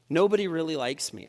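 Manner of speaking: put-on "Nobody" said like a little kid, falling; childish whine. Shown as a demonstration. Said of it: "something a little kid would say".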